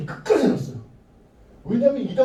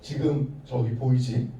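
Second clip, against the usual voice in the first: threatening king. Acted. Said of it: "그렇게 협박을 했어요".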